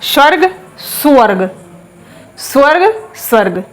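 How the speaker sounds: स्वर्ग repeated with sv cluster, no u; model pronunciation. Shown as a demonstration. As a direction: say स्वर्ग several times, tight sv. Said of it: "बोलना इसको".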